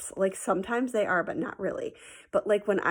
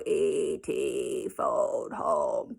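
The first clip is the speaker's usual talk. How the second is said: slow words pushed out on a burp; 4 semitones lower, much slower than usual. Shown as a demonstration. Teacher showing her class her burp-talking trick, burping the words. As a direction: burp the whole line as you say it. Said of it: "but I would do it with a burp".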